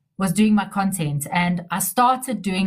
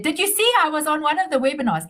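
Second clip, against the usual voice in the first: higher, quick imitation of a Polish accent; imitated Polish accent; 6 semitones higher, faster than usual. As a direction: mimic a friend's excited Polish-accented question. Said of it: "in her Polish accent".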